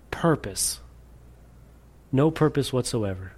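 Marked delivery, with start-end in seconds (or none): 0.1-0.8 a whispered, dropped word; hushed whisper. Real, not acted. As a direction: breathe the word out unvoiced. Preacher drops to hushed word.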